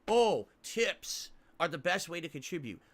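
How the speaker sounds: slow, mocking sing-song of his own line; mocking quote. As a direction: parrot his stock plea with disdain. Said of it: "I fucking hate saying that".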